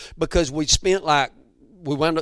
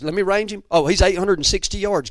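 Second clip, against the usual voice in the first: lightly imitated guide, higher and urgent; excited guide; 5 semitones higher, 5 dB louder than usual. Hunting guide calling the yardage to client, mildly excited. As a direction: call out the range like an eager guide. Acting the guide ranging an animal.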